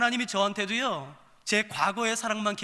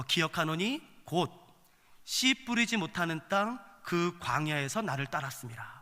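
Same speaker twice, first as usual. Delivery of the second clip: scripture reading; 2 semitones lower than usual. Acted. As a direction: read the verse out slowly and evenly. Reads scripture aloud.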